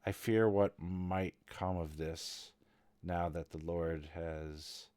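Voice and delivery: slow, hesitant worry, mildly played; understated anxious servant, pausing mid-thought; fearful servant. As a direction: let the fear come out slowly and haltingly. Game master plays the fearful servant.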